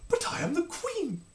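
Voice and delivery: proud queen, pitched high; haughty royal disbelief; indignant queen. Acted. Queen protests her status.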